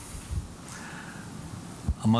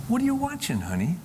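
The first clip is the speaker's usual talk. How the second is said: high-pitched gentle mother's question; loving; 9 semitones higher, faster than usual. Retold or imitated. Mother gently asking her son about his phone, lovingly. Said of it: "Very lovingly, she said".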